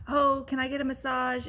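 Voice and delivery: imitating a child's mildly demanding question; a little attitude. Child wants a massage instead of back rub, little attitude. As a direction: ask with a touch of attitude, as if dissatisfied. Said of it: "attitude, like I wasn't giving him a massage".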